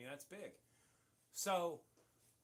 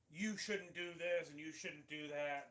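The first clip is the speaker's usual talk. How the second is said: nagging troll; slower than usual. Retold or imitated. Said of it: "I get a lot of trolls through emails like".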